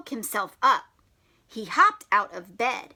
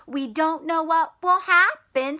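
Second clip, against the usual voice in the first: whisper; 4 semitones higher, 5 dB louder than usual. Shown as a demonstration. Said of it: "repeated phrase whispered".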